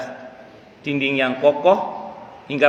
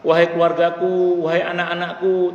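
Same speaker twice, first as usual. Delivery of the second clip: mildly raised, higher mock wail; a restrained imitation of crying out; retold cry; 3 semitones higher than usual. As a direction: imitate someone calling out to family in protest. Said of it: "teriak dia".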